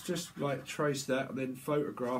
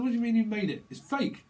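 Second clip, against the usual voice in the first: higher-pitched mock disbelief; acted scoffing outrage; incredulous accusing; 5 semitones higher, 3 dB louder than usual. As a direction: challenge it as an obvious fake. Acting out sceptical accuser.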